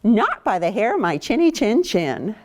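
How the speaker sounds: lightly voiced defiant pig; a hint of a stubborn little pig. Pig refusing the wolf, mildly defiant. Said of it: "The third pig says".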